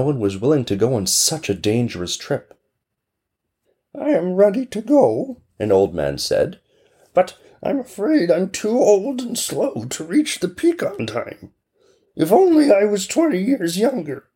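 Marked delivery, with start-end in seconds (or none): 3.9-5.4 high, put-on old man voice. Old grandfather volunteering, in a high put-on voice. 7.1-14.3 high, put-on old man voice, sighing at his age. Old grandfather to the villagers, a high put-on regretful voice.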